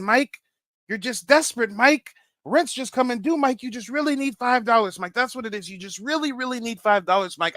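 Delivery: playful mock accusation. Real, not acted. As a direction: needle him for lying to get cash. Accusing the storyteller of lying.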